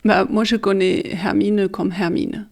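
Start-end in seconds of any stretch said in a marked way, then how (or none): 1.1-2.5 "Hermine" said as German her-MI-ne; prononciation allemande. Shown as a demonstration. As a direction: say both "Hermine" with German H and long i. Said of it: "En allemand". (« Hermine » à l'allemande)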